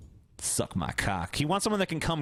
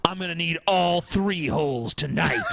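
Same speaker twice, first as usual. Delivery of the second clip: aggressive macho voice. Acted. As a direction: bark orders like an alpha. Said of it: "This is how you fucking talk to a woman".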